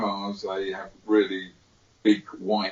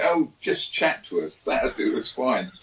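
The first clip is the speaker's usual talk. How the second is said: excited fan voice; 4 semitones higher, 4 dB louder than usual. Retold or imitated. Imitating eager foreign listeners.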